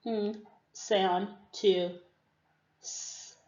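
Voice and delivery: slow, s hissed unvoiced; sound demo. Shown as a demonstration. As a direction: draw out the sounds, hiss the s. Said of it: "Change the".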